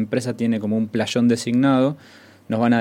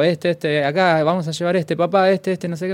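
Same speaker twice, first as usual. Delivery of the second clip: put-on excited family kids; 7 semitones higher than usual. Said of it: "empiezan todos, al mismo tiempo".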